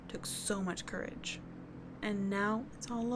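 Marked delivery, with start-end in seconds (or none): 0.1-1.4 breathy hushed praise, softer; near whisper. Acted. Friend praising a beaten boy's courage, hushed. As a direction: let it fall to a whisper of pride.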